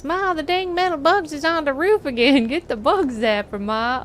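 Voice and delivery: hillbilly voice. Retold or imitated. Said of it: "yells in hillbilly voice".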